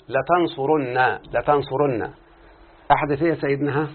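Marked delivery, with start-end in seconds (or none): 0.1-2.1 drawn-out demo. Shown as a demonstration. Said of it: "لما أقول له".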